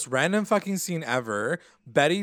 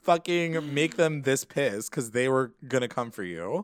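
louder, higher exasperated plea; pleading; 6 semitones higher, 5 dB louder than usual. Retold or imitated. Podcaster pleading with the characters, mock exasperated. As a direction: beg them not to provoke anyone. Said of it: "And I was like".

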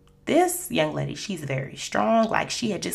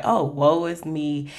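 slow, drawn-out self-pity; milk the misery; mock woe; slower than usual. Stuck in the elevator, slow self-pitying moan. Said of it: "I was going so hard".

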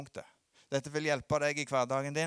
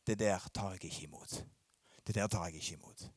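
calm firm refusal; 8 semitones lower, 7 dB quieter, faster than usual. Pretend. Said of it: "stå han imot og si".

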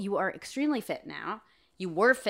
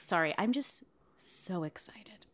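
whispering; 6 dB quieter than usual. Real, not acted. Whispered apology.

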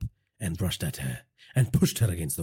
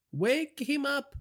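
high, slow boss command; cold order; slower than usual. A narrator's reading. Boss ordering the thug to wake the prisoner, high and slow.

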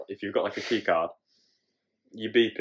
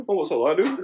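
higher, rising question with a laugh in it; sudden curious tone; 5 semitones higher than usual. Retold or imitated. Imitating his dad's change of tone mid-rant, suddenly curious. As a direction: switch from fuming to idle wondering, imitated. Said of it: "it's like a proper change of tone".

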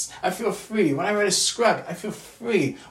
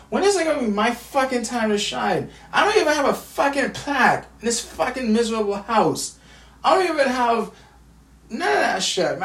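real angry rant; 4 semitones higher than usual. Real, not acted. Venting about family, rising anger.

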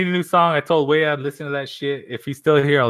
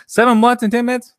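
higher and louder, incredulous; amazed disbelief; 9 semitones higher, 7 dB louder than usual. Real, not acted. Streamer marvelling at chat's friend, incredulous. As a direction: throw it out in disbelief.

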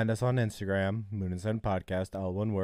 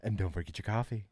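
customer service voice; 4 dB quieter, faster than usual. Shown as a demonstration. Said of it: "that's my customer service voice".

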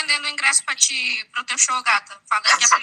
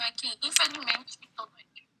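sick and quiet; 10 dB quieter, slower than usual. Real, not acted. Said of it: "se eu estiver muito silenciosa".

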